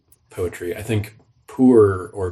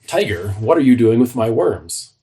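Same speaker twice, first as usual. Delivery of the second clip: accusing question; 2 semitones higher, 5 dB louder than usual. Shown as a demonstration.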